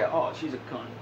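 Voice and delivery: deadpan Clinton aside about his wife; Bill Clinton voice. Pretend. Gamer voices Clinton answering about Hillary, deadpan. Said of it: "How's Hillary?".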